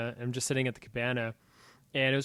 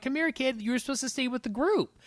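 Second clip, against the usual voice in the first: stern father; 11 semitones higher than usual. Retold or imitated. Father scolding found child.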